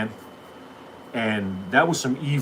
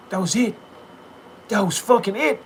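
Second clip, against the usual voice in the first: "That was fucking it" said higher, rising at the end; incredulous, raised pitch on "That was fucking it"; exasperated emphasis; 9 semitones higher than usual. Real, not acted. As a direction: hammer home "That was fucking it". Repeated punchline building up.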